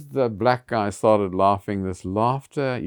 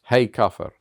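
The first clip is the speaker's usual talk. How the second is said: shouted again, louder than his talk; retold yell; 3 semitones higher, 5 dB louder than usual. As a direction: call the slur out loud and hard. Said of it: "and he yelled".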